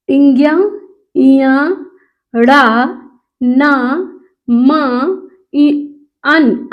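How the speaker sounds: teacher demonstrating nasal consonants; nasal syllables. Shown as a demonstration. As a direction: push each nasal syllable through the nose. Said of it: "तो आइए हम देखते हैं".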